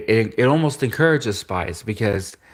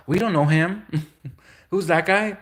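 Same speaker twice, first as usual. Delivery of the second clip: mock denial; 8 semitones higher than usual.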